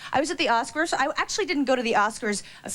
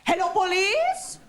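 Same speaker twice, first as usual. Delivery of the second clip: put-on high, slow kid voice tattling to police; childish tattling; 6 semitones higher, slower than usual. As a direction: play the tattletale child on the phone. Kid voice reporting mom to police.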